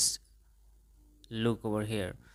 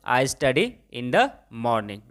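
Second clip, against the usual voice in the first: very slow, each word separate; slow model sentence; 2 semitones lower, 4 dB louder, much slower than usual. Shown as a demonstration. Teacher models the answer for students, very slowly. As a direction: lay it out slowly for the class. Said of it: "तो क्या बोलेंगे".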